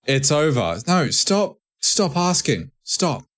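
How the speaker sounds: high-pitched, repeated pleading commands; mock exasperated scolding. Host telling fans to stop nagging, mock exasperated. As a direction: cut them off in mock exasperation.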